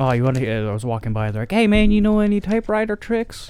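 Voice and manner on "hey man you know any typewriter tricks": put-on very high, loud, drawn-out playground kid voice. Retelling kids at a playground asking about typewriter tricks: kid impression. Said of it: "That's my kid impression".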